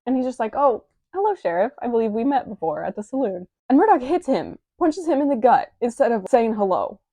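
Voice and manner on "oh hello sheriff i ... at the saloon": bright, much higher, polite greeting; overly polite Vash. Retold or imitated. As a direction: greet him sweetly, as if nothing is wrong. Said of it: "Vash is very polite to him".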